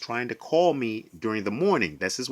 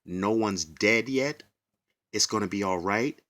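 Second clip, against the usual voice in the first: mock deadpan quote; 3 semitones lower than usual. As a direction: drag it out to show how absurd it was. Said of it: "her to respond by saying".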